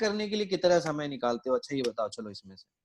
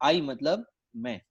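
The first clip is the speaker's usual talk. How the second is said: teacher's slow lesson; 4 semitones lower, slower than usual. Retold or imitated. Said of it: "teacher उसको पढ़ा रही थी".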